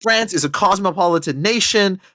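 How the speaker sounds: put-on a light French accent slipping into the quote; mock the French ambassador with a touch of French accent. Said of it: "you hear, like, a little French accent, like, slipping out there".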